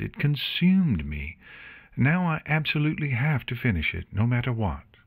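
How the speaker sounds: a hint of brooding urgency as she explains; Octavia, intense. Octavia to Luna and Artemis, explaining her compulsion, intense.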